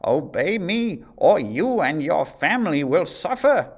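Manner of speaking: queen's cruel threat; threatening queen. A narrator's reading. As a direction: make him fear for his family. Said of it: "she warned".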